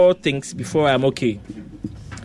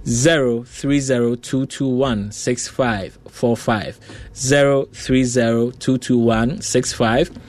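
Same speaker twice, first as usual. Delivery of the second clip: number read slowly, digit by digit; slow dictation; slower than usual. Real, not acted. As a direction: spell out the number slowly for callers. Host reads phone number slowly.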